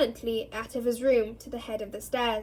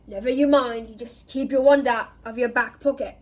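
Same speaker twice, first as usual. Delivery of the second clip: loud gruff growl; growling Moody; 5 dB louder than usual. Acted. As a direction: growl it, shutting her down. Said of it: "growled Mad-Eye".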